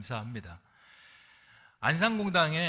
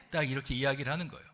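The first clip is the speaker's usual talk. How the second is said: usual speaking voice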